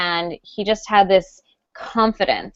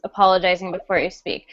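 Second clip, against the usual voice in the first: ordinary talk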